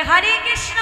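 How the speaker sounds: sneering quick "Hare Krishna" tossed off as a jibe; mock the devotee with a quick "Hare Krishna"; imitating a passer-by taunting a devotee with "Hare Krishna". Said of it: "অনেকে ব্যঙ্গ করে বলে".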